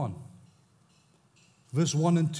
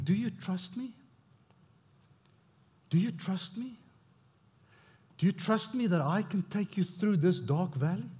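God's gentle voice. Acted. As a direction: ask it gently, like an invitation. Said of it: "he's saying".

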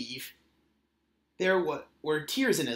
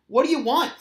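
grumpy snap; 8 semitones higher, 7 dB louder, faster than usual. Acted. Grumpy Skunk at the door.

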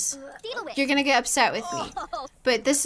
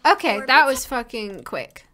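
ordinary talk, nothing marked

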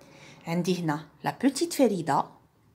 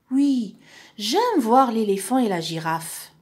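Ferida replying; 3 semitones higher, 3 dB louder than usual. Acted. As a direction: play the girl accepting, voice lifted.

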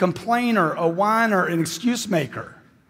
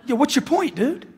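exasperated retort; 12 semitones higher than usual. Retold or imitated. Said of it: "I'm like".

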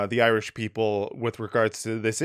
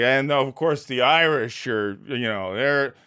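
smug commentator voice, lightly done; mock Western pundit. Mocking how the West talks about the Irish, mild smug pundit. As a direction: sneer like a dismissive Western pundit. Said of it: "the way we view the Irish is almost like".

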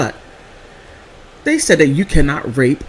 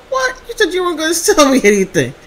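much higher, fast disbelieving squeal; surprised; 13 semitones higher, faster than usual. Retold or imitated. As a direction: act shocked at the sales pitch. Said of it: "I'm like".

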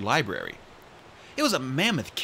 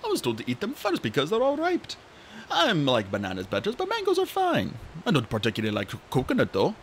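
sleepy dragon voice; 3 semitones higher than usual. Acted. Coconut voiced.

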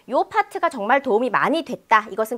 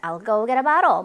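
"I'll go get a bottle" linked, with GO and BO drawn out; riding the beat; 2 semitones lower, much slower than usual. Shown as a demonstration. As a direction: swing through the sentence, tapping both Ts. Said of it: "박자를 확실히 타고 있죠". (I'll go get a bottle을 박자 타며 연음으로)

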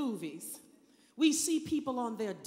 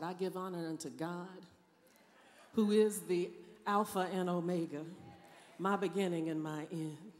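measured call-out of honors, giving honor; preacher greeting God in church style; traditional church greeting; 4 semitones lower than usual. Retold or imitated. Preacher honoring God the old church way, measured. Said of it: "this is how I know how to start".

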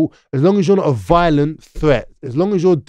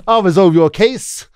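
high, slow mock-earnest offer; eager helpful voice; 5 semitones higher, 4 dB louder, slower than usual. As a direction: play the eager people pleaser. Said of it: "even pleasing the police".

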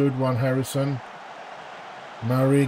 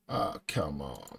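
much lower, much softer come on; real deflated murmur; dejected mutter; 11 semitones lower, 11 dB quieter than usual. Real, not acted. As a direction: sigh it out, beaten. Resigned before penalties.

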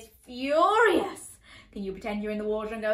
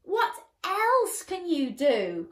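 eager princes; 7 semitones higher, 4 dB louder, slower than usual. Acted. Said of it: "cried More and Less".

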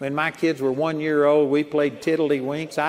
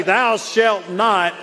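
slow solemn command; 3 dB louder, much slower than usual. Retold or imitated. Quoting the law's command again.

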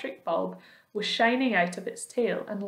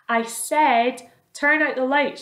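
louder and higher, an impatient angry shout; 4 semitones higher, 8 dB louder, slower than usual. A narrator's reading. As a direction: shout it, fed up at being ignored. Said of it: "shouted the centipede angrily".

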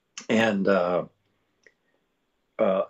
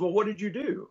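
higher-pitched, lightly imitated Scot; a hint of the Scottish star, curious; Sean Connery; 9 semitones higher than usual. Sean Connery asking about the replaced lines, imitated voice. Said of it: "he goes".

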